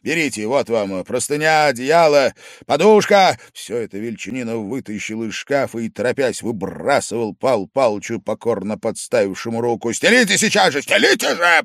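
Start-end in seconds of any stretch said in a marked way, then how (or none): 0.0-3.4 loud, curt orders; commanding. A narrator's reading. Angry host orders his guest onto the sofa. 9.9-11.6 loud, high, angry order; shouted command. A narrator's reading. Angry host shouts at his guest to make the bed. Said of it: "грозном окрике".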